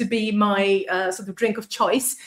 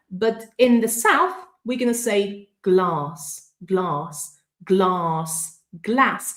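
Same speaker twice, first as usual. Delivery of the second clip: ordinary delivery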